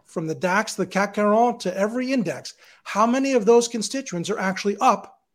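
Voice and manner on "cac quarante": cac quarante in a French accent, nasal French r. Real, not acted. Analyst naming the French index in a French accent. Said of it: "he did it in such a beautiful French accent".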